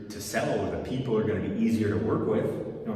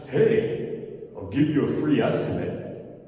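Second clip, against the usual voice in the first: bright, loud cheesy sales pitch; a hint of a cheesy contractor; mock salesman pitch; 3 dB louder than usual. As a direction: ham up a dull sales offer. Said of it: "It's not a very attractive offer".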